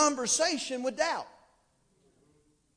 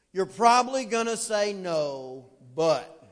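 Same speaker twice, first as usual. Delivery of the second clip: put-on doubtful kid asking; 5 semitones lower, 4 dB louder, slower than usual. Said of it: "And then they'll ask the question".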